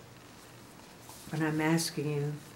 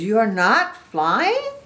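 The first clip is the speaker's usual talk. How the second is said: puzzled question; 5 semitones higher, 9 dB louder, slower than usual. A narrator's reading. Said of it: "Gerald says".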